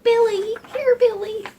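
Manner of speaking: high, loud call for the dog. Pretend. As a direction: yell it across the yard like calling a pet. Calling a dog.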